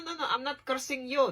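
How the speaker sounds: ordinary talk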